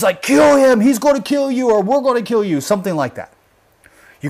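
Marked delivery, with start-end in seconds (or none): 0.2-2.6 high shout easing off in level; retold threat in a raised, high voice; imitated frantic yell. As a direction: mimic the bystander yelling, pitched well up. Re-enacts the phone man's yelling.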